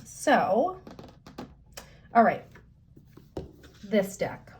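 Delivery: just after a sip of tea; sipping hot tea. Real, not acted. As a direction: speak right after swallowing tea. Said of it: "let me take a sip of my tea".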